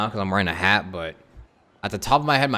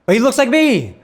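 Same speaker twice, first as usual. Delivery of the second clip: high, loud, thrilled disbelief; excited shouting; 13 semitones higher, 6 dB louder than usual. Real, not acted. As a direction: yell it out, pointing at the lookalike. Sees game character resembling him.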